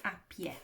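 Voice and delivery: "à pied" with the final D left silent, ah-pyay. Shown as a demonstration. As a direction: drop the last letter of "pied", ending on the vowel. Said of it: "I shouldn't be saying that D".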